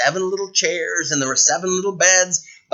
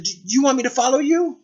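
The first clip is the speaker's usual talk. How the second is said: Snow White's question; 11 semitones higher, faster than usual. Acted. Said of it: "Snow White said".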